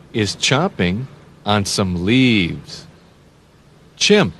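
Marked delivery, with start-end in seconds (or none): 4.0-4.3 high, loud Chimp called out; cheerful name call; excited naming. Shown as a demonstration. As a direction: pop the word Chimp. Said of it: "naming the animal for kids".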